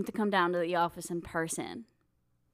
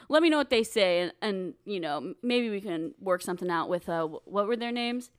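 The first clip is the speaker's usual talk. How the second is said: put-on Southern accent. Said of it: "mocking people's accents".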